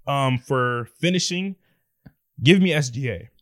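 slow, dragged-out words; slow motion. Real, not acted. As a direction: voice slowing and dying. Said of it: "You talking in slow motion?".

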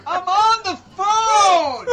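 high, slow, laughing yell at mom; turning away from phone. Retold or imitated. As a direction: shout off-mic at mom, laughing. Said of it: "that was my mom".

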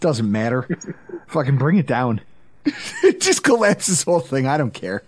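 lightly voiced passed-out drunk, unbothered; mock drunk resignation. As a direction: play a drunk who's given up, low. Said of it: "I'm already drunk and passed out".

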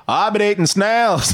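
Wolverine. Retold or imitated.

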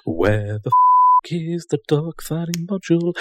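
gruff, annoyed American delivery; angry American accent. Shown as a demonstration. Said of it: "When you say it with an American accent".

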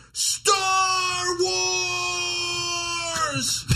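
high, sudden yelled cry; imitating a random worker screaming from the roof; mock scream. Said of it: "just screams".

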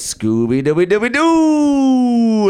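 high, loud, slow cartoon-dog sing-song; Scooby-Doo voice. Scooby answering Fred, slow high cartoon-dog howl. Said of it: "and he goes".

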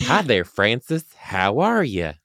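a hint of Southern twang; slight Southern accent. Real, not acted. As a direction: greet with a light Southern lilt. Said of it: "little bit of a Southern accent".

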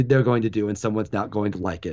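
usual speaking voice

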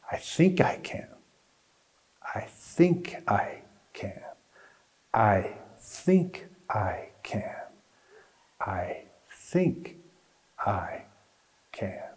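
fading slow whisper; shrinking smaller and smaller. A narrator's reading. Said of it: "voice grew fainter and fainter. And its words came slower".

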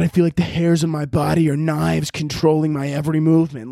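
a touch of hammed-up anguish; live through the actor, overacting the stress; method-acted take. Shown as a demonstration. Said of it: "You gotta be like".

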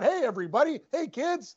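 mock cheerful phony voice, rising and softening; hammed-up phony cheer for the camera; fake friendly greeting. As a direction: imitate a fake-nice ballplayer for the cameras. Mimicking phony camera-friendly athlete.

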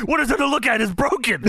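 put-on high, indignant British accent; mock British huff over a broken nose; imitating Regal in a British accent.

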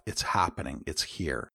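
soft, hushed words to yourself; quiet inner voice. Shown as a demonstration. Coach showing listeners their silent self-talk, quietly. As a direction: murmur it under your breath, fading away. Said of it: "Silently say to yourself".

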